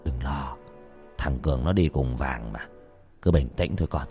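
low, soft calming voice; softly spoken, low-pitched reassurance; trying to reassure. Acted. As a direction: settle a worried student quietly. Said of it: "cố trấn an".

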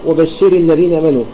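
وبشر leaned on at its end; misplaced stress. Retold or imitated. Teacher imitating many readers, stress on the ر of وبشر. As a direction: stress the ر of وبشر before الذين. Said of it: "الاتيان بالنبرة هنا جعل".

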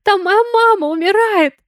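high, loud hysterical scream. A narrator's reading. Sonya screams at Valentine about her dying mother. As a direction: scream it at him with everything. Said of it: "заорала уже на него Соня".

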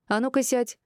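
barked order. A narrator's reading. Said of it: "рявкнула Мира".

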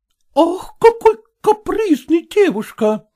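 high, mock-exasperated sigh of a German landlady; grunting exclaim. Landlady huffs at the stubborn peasant girl, exasperated. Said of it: "крякнула Мина Францевна".

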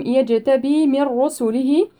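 يجتبي with the ج bounced in a short echo; يجتبي with qalqala on the jim. Shown as a demonstration. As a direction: let the ج of يجتبي pop with qalqala. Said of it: "نقلقل الجيم".

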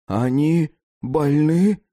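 slow, high, rising disbelief; asking back. Acted. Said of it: "переспросил Ньютон".

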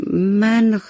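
halting, embarrassed little monkey; sheepish, hesitant confession. Acted. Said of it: "میمون با خجالت گفت".

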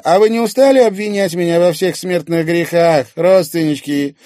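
high, loud sarcastic complaint; exasperated Irina. Acted. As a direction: throw the accusation back, fed up. Irina dismisses the accusation.

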